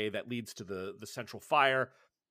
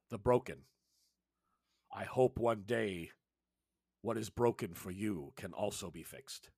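grave elder Sectu; 2 semitones lower than usual. Acted. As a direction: speak like a wise old healer, unhurried. Sectu addresses the healer.

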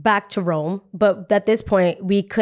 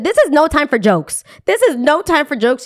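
retold snap; 7 semitones higher, 5 dB louder than usual. Snapping at joking cruise guy.

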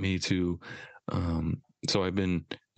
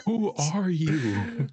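slow mock disbelief; 4 semitones higher, much slower than usual.

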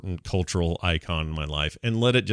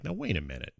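mock indignant; 10 semitones higher than usual. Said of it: "you're like".

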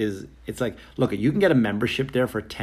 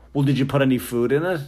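accusing clerk; 3 semitones higher, faster than usual. Retold or imitated. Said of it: "he immediately goes".

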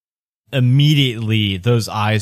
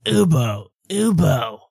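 apologetic dad character; 3 semitones higher, slower than usual. Acted. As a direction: call out haltingly, then apologize. Game master voices recovered dad.

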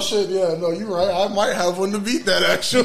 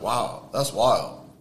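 slow stunned wow; 5 semitones lower, 4 dB quieter, much slower than usual. Retold or imitated. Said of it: "over here like".

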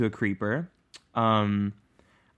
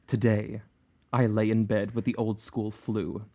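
dramatic imagined reader. Retold or imitated. Host reads a fan's five-star review in her imagined voice, hammed-up and dramatic. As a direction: read it like a riveted fan reliving every thrill. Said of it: "read this in the exact tone of voice as what I imagine she".

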